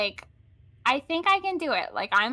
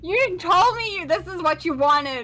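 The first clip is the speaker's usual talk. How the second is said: put-on loud Valley Girl protest, pitched up; 5 semitones higher, 5 dB louder than usual. Player defending the requested voice to friend, indignant Valley Girl. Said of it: "a Valley Girl Batman?".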